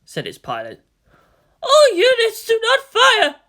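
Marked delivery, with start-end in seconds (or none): 1.6-3.3 high, loud command shout; urgent order. Acted. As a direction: stop the squad firing, urgently.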